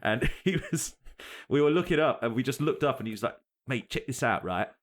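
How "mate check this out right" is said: put-on London accent. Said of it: "Why did you give him an American accent?".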